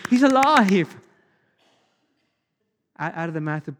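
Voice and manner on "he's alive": high, loud whoop of joy; excited boy's shout. Acted. Five-year-old jumping in his seat, excited shout. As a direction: cry it out like a child jumping up and down. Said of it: "jumps up and down in his seat".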